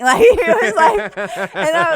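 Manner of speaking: laughing through the words; can't stop laughing while telling it; giggling mid-story. Real, not acted.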